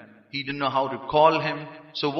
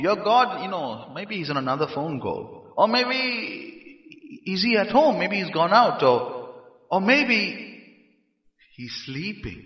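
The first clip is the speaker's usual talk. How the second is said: mocking; 4 semitones higher than usual. Elijah needles the prophets about their god, mocking. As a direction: toy with them, drawing out each guess. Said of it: "he's mocking".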